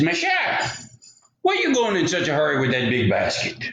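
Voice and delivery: lightly voiced wolf greeting, starting high; sweet-talking wolf, lightly played; sly loup-garou. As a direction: open high on the greeting, then settle down. Wolf sweet-talks the girl.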